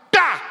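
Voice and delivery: sharp high loud "tá" for a shot; gunshot sound. Retold or imitated. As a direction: snap it out like a rifle crack. Gunshot imitated in story. (estalo de tiro imitado)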